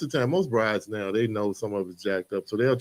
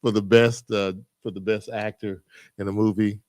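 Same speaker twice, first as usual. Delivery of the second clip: awards show presenter. Retold or imitated. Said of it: "shoulda went up there and said".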